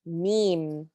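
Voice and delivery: "meme" said as a plain M sound; normal meem. Shown as a demonstration. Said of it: "This is a normal M sound".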